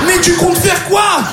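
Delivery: high, drawn-out incredulous question; mock alarmed question. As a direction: ask it high and stretched, hammed-up. Acts friend's reaction on phone. (question aiguë, faussement affolée)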